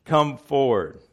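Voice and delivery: lightly booming wizard. Retold or imitated. Preacher reading Oz script, a hint of booming wizard. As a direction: summon them forward with a touch of boom. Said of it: "So the wizard says".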